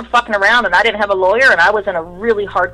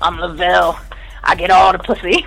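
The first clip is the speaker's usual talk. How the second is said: mock swagger voice, pitched up; mocking Lavelle.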